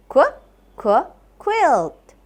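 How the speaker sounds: kw, kw, then quilt; phonics sounding out. Shown as a demonstration. Teacher sounds out quilt for the class, phonics style. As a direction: say qu, qu before quilt. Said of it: "let's sound out their sounds".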